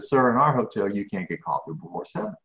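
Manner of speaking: a hint of the polite desk clerk, lightly voiced; retold polite clerk. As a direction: quote her calm, polite refusal. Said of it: "she very politely looked at me".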